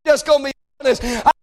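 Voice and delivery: fervent prayer, crying out to God; pleading prayer. Acted. Preacher praying aloud to God for his family, pleading. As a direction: beg God earnestly in prayer.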